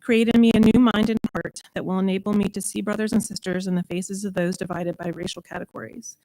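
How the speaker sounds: measured, earnest prayer reading; spoken prayer. Acted. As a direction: read a congregational prayer, each phrase starting firm. Leads a prayer meditation.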